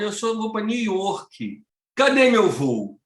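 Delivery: put-on slow, plaintive old woman asking; lost old lady. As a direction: drag it out like a confused grandma. Velha procura o voo. (voz lenta e queixosa de senhora perdida)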